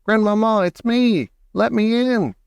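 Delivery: high, urgent calling with modest volume; shouted. A narrator's reading. Grandson begs grandmother to let him in, high shout. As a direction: plead loudly to be let in. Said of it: "I shouted as loudly as I possibly could".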